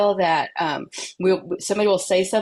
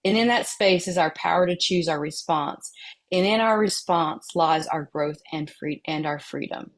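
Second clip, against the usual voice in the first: quote reading. Acted. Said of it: "a quote by Viktor Frankl".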